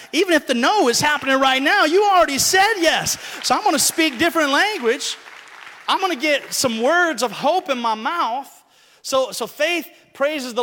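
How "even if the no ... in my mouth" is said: bold declaration. Retold or imitated. Self-talk rising to declaration.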